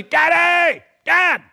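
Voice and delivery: loud, high calling out across the house; child calling for dad. Retold or imitated. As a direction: holler for Dad like a kid searching every room. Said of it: "he's screaming the same thing".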